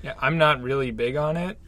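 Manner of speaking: muffled, speaking into a cup. Real, not acted. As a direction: talk with the mouth in the cup. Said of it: "I'm talking into my cup".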